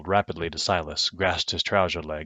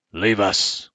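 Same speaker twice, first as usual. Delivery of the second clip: louder, commanding Roman; stern dismissal; 2 semitones higher, 6 dB louder than usual. Acted. Loud stern command. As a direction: Caius Pompeius sends Missus Owens out. Caius dismisses Missus Owens.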